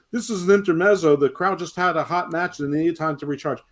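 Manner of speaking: high mocking voice for the defenders; mocking others. Host mocks fans defending the segment, high sneer. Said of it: "And everyone's like".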